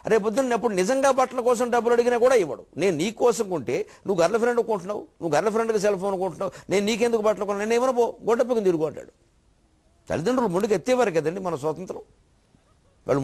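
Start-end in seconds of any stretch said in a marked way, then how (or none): 2.8-8.8 higher-pitched mock parental telling-off; lightly acted exasperated father; scolding father. Father refusing son money for clothes, mock scolding in a raised pitch.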